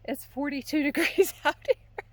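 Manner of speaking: quick words, shivering in cold. Real, not acted. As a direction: shiver as you talk. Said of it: "I'm gonna start shivering".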